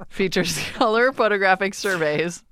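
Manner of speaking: put-on Russian accent, breaking into laughter. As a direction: try the Russian accent but crack up. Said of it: "test my Russian accent".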